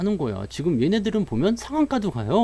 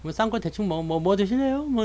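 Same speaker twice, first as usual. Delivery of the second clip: softer, higher half-hearted offer; careless date; 5 semitones higher, 5 dB quieter than usual. Acted. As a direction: ask offhandedly, hardly bothering. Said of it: "일단 자세부터 틀리잖아요". (성의 없이 대충 묻는 말투)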